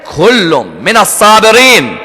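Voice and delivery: slow, drawn-out Arabic recitation; Quran recitation. Real, not acted. Preacher quoting the Quran to listeners, measured recitation. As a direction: recite the verse, stretching the names.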